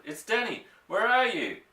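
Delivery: high, loud eager calling; shouting. A narrator's reading. Boy running toward his father's voice, calling high and loud. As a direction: call out, running toward him. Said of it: "I shouted".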